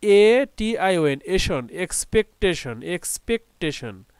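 measured "এক্স-পেক-টেশন", each syllable set apart; slow teacher's pronunciation of "এক্সপেকটেশন"; syllable-by-syllable reading. Shown as a demonstration. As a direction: slowly spell "এটিআইওএন", then blend into "এশন". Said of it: "syllable ভাগ করে পড়ি".

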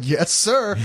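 meek yes-man. Pretend. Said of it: "And you'd be like".

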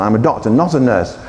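low-pitched doctor's correction; firm story doctor. A narrator's reading. Doctor corrects a mistaken patient, low and firm.

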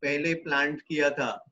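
unhurried English instructions with long pauses; guided meditation. Real, not acted. Yoga teacher bringing students out of yoga nidra, guided meditation.

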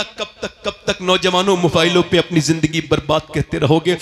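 normal talking voice

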